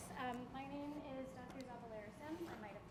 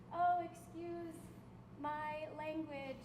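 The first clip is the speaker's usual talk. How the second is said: slow, drawn-out, louder and higher apology; mock self-deprecating guest; 4 semitones higher, 5 dB louder, much slower than usual. Host imitating the guest's modest apology to the students, slow and drawn out. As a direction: stretch out the fake apology playfully. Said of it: "He's gonna do this thing where he says".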